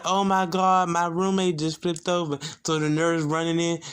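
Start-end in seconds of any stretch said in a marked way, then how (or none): 0.0-2.4 higher-pitched imitation of an alert; mild retold alarm. Roommate alerting the nurse to a fall, mildly alarmed. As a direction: raise the pitch as if reporting an accident.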